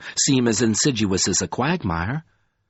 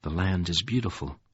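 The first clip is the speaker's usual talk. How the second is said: breathed; 7 semitones lower, 7 dB quieter than usual. A narrator's reading. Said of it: "Covenant breathed to himself".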